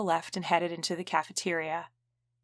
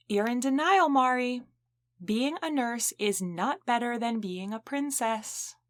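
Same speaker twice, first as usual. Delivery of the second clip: raised, higher voice calling down the hall; calling after her; 5 semitones higher than usual. Acted. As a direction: call out teasingly after a friend leaving. Donna calling after Mariana.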